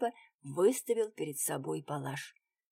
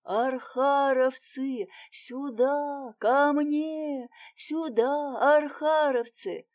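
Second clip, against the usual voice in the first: loud, higher, drawn-out calls for help; yelling at the top of his lungs; 6 semitones higher, 6 dB louder, much slower than usual. A narrator's reading. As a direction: bellow it to bring the squad running. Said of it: "заорал во всю глотку".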